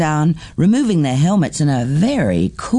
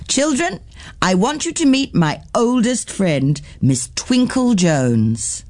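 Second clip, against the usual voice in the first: presenting a guest with pride; teacher announcing; 5 semitones higher than usual. Acted. The teacher introducing her oldest friend to the class.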